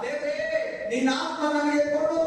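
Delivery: imitating an insistent, anguished prayer; re-enacted tearful plea. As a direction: cry out to God as if reliving desperation. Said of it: "ಬರೋ ಅಂತ ಅಳ್ತಾ ಇದ್ದೀನಿ".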